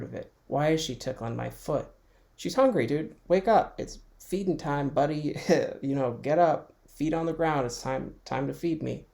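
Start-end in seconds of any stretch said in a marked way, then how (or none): 2.4-9.1 voicing the cat. Cat demanding breakfast from its sleepy owner, pushy. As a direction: boss the owner around as the cat.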